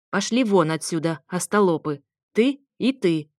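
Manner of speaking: angry grandma. Acted. Grandma throws them out.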